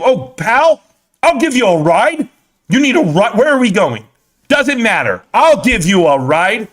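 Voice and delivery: mocking high, over-eager pal voice; excited beta male. Beta male offering a stranger a ride, mock excited high voice. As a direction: pitch it up like a too-friendly guy offering favors. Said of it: "the voice goes up one octave every time they get excited".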